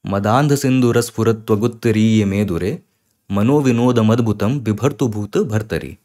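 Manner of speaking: smooth continuous Sanskrit chant; fluent Shiv Tandav recitation; flowing stotram recitation. Shown as a demonstration. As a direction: recite the verse in one flowing line. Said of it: "ये इस तरीके से आप इसका उच्चारण कर सकते हैं".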